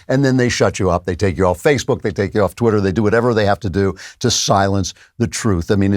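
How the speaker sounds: ordinary talk, nothing marked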